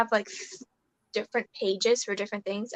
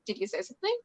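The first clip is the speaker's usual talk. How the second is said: quiet question; 6 semitones higher, 7 dB quieter, faster than usual. Retold or imitated. Retelling mother's quiet question.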